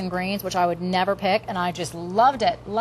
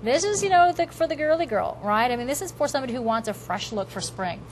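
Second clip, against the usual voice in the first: home shopping host. Acted. Host introduces new product launch.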